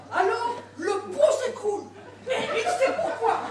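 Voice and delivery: cracking up mid-joke; laughing while telling a joke. Real, not acted. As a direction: giggle through the punchline. Wife laughing through joke.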